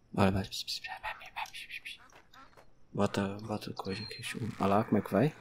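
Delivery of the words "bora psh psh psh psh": ordinary talk, nothing marked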